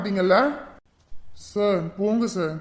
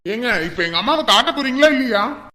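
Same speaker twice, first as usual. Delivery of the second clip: angry demand; 6 dB louder than usual. Acted. Demands to see mother.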